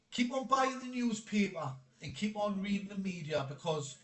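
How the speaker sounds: mildly sarcastic encouragement. Real, not acted. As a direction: feign agreement with a sarcastic edge. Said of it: "I'm being sarcastic".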